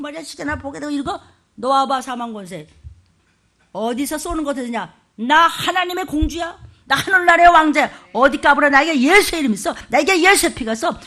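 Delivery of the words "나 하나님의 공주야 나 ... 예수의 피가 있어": proud, rising claim of royal identity; bold declaration. Shown as a demonstration. Pastor shows the congregation how to defy Satan, boldly proclaiming. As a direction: announce it like a defiant child of the king. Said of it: "이렇게 좀 해".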